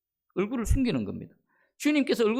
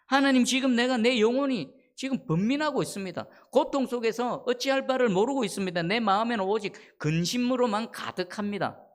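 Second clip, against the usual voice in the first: higher, mildly acted anguish; anguished prayer; 4 semitones higher than usual. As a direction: pour out the trouble to God. Voicing David's anguished prayer to God.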